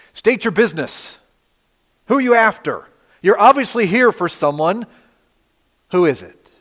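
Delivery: Jesus confronting the soldiers who came to arrest him, commanding; commanding king. Acted. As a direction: demand an answer like a king in charge. Jesus voiced confronting armed soldiers.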